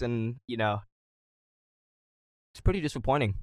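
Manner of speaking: talking while chewing gum; words round a wad of gum. Real, not acted. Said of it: "you munched on a snack?".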